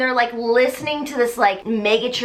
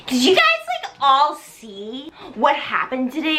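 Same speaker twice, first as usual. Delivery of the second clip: put-on gossipy mean girl; 2 semitones higher than usual. Mean girl Chris gossips to friends about Carrie. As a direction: gossip like the queen bee.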